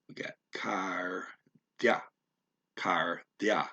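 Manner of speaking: Carthia said slowly with a flat tongue th. Shown as a demonstration. Student practising the flat tongue th in Carthia. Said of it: "flat tongue T H".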